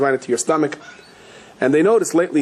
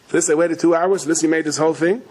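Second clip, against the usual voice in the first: higher-pitched, mildly outraged husband; mock indignant anger; 3 semitones higher than usual. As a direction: complain incredulously as the let-down husband. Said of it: "So he's very angry".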